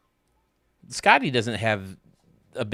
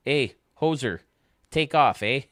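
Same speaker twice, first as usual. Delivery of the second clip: put-on McKenzie Brothers Canadian accent. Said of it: "They do that Christmas song".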